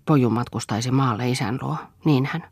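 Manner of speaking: ordinary delivery, nothing marked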